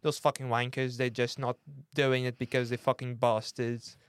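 mock Cockney admiral; jokey put-on Cockney accent. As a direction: grumble as a Cockney navy boss. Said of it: "I don't know why he has a Cockney accent".

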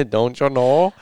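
mock Midwestern lilt; Minnesota accent. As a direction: put on a Minnesotan twang. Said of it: "this weird Midwestern Minnesota voice".

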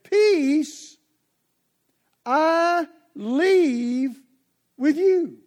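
"Peace I leave with you" proclaimed loud and high; a loud, lifted "Peace I leave with you"; solemn pronouncement. Acted. Quoting Jesus solemnly.

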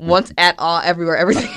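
title said in reverse word order, laughing; backwards speech. Shown as a demonstration. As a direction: say the words backwards, stumbling into a laugh. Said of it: "Now say it backwards".

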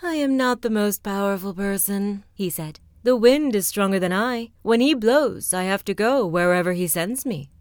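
mild sighing cloud. Acted. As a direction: sigh and give way to the wind. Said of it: "The cloud sighed again".

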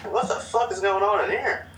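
retold shock. Retelling bathroom barfing, startled mock outburst. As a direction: act out the shock at the noises.

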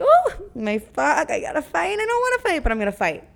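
high, squeaky pretend panic; a silly fake freak-out before the fight; mock panicked fighter. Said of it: "I'm gonna be like".

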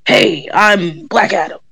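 slow, lightly voiced action-star impression; The Rock as Black Adam. Imagining a miscast superhero introducing himself, lightly voiced slow impression. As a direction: lightly imitate a superhero stating his menace, slowly. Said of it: "That was a spot on impression".

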